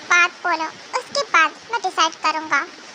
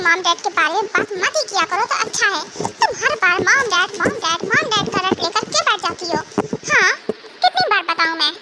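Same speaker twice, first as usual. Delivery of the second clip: mild acted shouting fit, words hammered out; angry outburst. Husband silencing wife about his mom and dad, angry outburst. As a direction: cut in sharply, fed up and scolding. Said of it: "चिल्लाना बंद करो".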